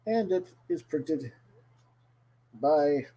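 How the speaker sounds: bad, hammy Irish accent. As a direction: lay on a cheesy Irish brogue. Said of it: "doing a really bad Irish accent today".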